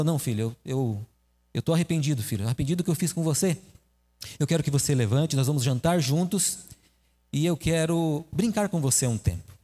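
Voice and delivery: remorseful father. Acted. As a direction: apologize gently to your son. Father says he's sorry.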